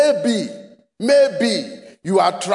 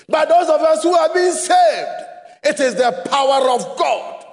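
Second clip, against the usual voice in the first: preaching at full force; 3 semitones higher than usual. Real, not acted. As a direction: proclaim it to the church. Preacher shouts to congregation.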